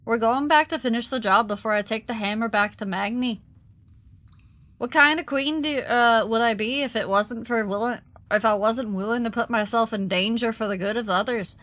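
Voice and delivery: a hint of an Irish lilt for the dwarf; light Irish accent. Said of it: "a little bit of an Irish accent".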